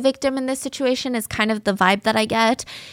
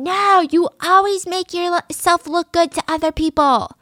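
higher mock accusation; retold scream; 8 semitones higher than usual. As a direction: imitate her angry outburst lightly. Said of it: "And she's screaming".

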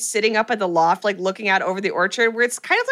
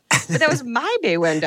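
mock indignant protest; 3 semitones higher than usual. Acting out a horrified viewer's protest.

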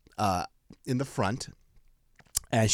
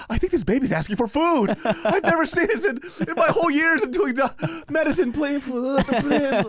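mock amazed doctor; 14 semitones higher, 4 dB louder than usual.

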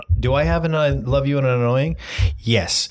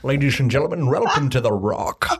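Sean Connery. Pretend. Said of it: "Go ahead, Sean Connery".

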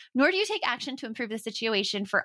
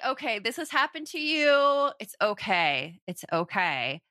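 gentle, drawn-out reassurance; self-soothing. Acted. Self-compassion self-talk voiced to oneself.

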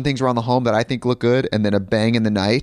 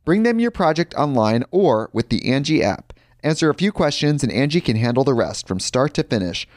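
ad read; 5 semitones higher than usual. Real, not acted.

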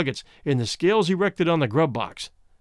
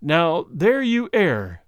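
smiling rejoinder; much slower than usual. Acted. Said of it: "was the smiling rejoinder".

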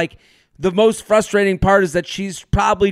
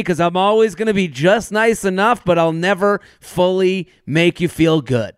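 mock niceness. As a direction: parody a man being just nice enough. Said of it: "So he's acting in this way where he's like".

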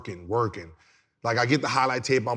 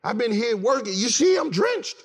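much higher and louder mock complaint; arguing back to the trainer in a much higher, louder indignant voice; indignant protest; 9 semitones higher, 3 dB louder than usual. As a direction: squeak out the protest like you've been wronged. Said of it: "I said".

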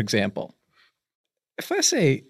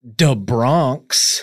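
whisper; 3 semitones lower than usual. Real, not acted. Punchline Bronx.

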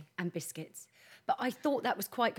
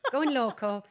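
laughing; 3 semitones higher, 6 dB louder than usual. Real, not acted. Joking rhyme on hotel name, laughing.

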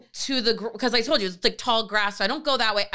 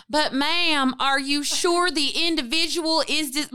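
lightly voiced Southern dispatcher; questioning Southern emergency operator, imitated; 2 semitones higher than usual. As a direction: put on a touch of a Southern accent. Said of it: "in my mind she was Southern".

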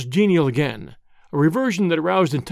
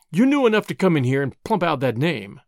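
usual speaking voice

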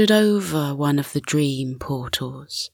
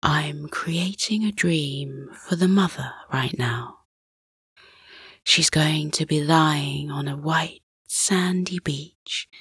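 hushed whisper; 4 dB quieter than usual. Acted. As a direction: murmur it over sleepers. Father whispering while making dream.

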